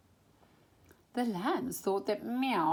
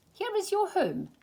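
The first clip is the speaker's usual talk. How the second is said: stork voice; 12 semitones higher than usual. A narrator's reading. Stork greets baby lambs.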